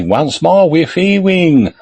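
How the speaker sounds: Bruce Lee. Acted. Clowning when asked to motivate the team, mock martial-arts master. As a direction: stretch it out slowly, rising in pitch. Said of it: "I feel like doing a Bruce Lee".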